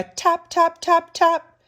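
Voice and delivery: high, crisp tap-tap imitation; tapping sound. A narrator's reading. Storyteller sounding out taps on the door, high tapping.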